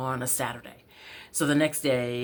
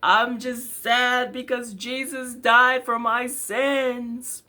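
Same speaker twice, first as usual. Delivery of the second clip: put-on little kid voice; 11 semitones higher, 6 dB louder, slower than usual. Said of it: "And I said".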